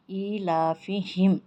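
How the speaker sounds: ایلافہم with the long vowel pulled out, slow recitation; stretched vowel. Shown as a demonstration. Teacher showing the long vowel to students, slowly stretched. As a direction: pull the madd in ایلافہم long. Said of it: "اسے کھینچنا".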